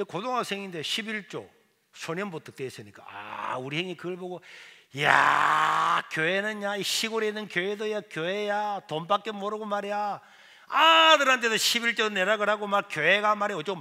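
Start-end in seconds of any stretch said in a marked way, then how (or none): 5.0-13.8 put-on scornful older brother griping loudly about the church; brother's mocking rant. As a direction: sneer at the church, loud and blunt. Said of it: "막 교회 욕을 하는 거예요". (교회를 비꼬며 투덜대는 형 흉내)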